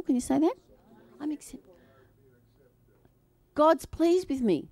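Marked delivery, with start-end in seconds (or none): 1.2-1.6 hushed demo. Shown as a demonstration. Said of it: "Can you say, "I'm acceptable"?". 3.5-4.7 slow affirmation. Shown as a demonstration. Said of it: "Say it".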